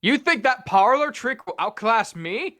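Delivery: taunting, high, loud villain. Acted. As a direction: sneer at the hero. Voicing a villain in a story.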